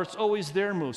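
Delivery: "their" given the emphasis; stress on their. Retold or imitated. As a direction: lean on "their" to point at them. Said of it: "I hear some of you saying".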